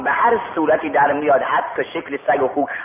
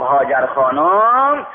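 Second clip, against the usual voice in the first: slow, stretched call to a wife; drawn-out call; 4 dB louder, much slower than usual. Acted. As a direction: call her name, holding the last vowel. Husband calls his wife in story. (صدا زدن کشیده)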